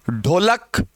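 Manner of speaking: ढोलक said with a breathy retroflex stop ढ at the start; contrast demo. Shown as a demonstration. Teacher contrasting two words, aspirated stop. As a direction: hit the ढ of ढोलक as a full stop with a puff of breath. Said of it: "दोनों का उच्चारण का फर्क है".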